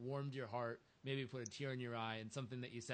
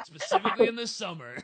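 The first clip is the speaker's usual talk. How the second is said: loud burst of laughter through the words; laughing hard; 11 semitones higher, 18 dB louder than usual. Real, not acted. Host laughing loudly at the FedEx story. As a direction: crack up loudly mid-sentence.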